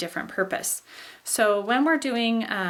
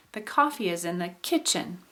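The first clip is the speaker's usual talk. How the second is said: a little tone on "coffee", rise-fall on "kitchen"; accent "coffee" lightly, then drop through "kitchen"; rising-falling contour. Shown as a demonstration. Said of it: "putting a little tone on coffee as well".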